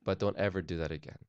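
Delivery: the same warning, said gently and evenly; nicer voice. Retold or imitated. Dad coaching his daughter to say it kindly, gentle. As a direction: soften it like a sister who means well. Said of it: "you're supposed to say it in a nicer voice".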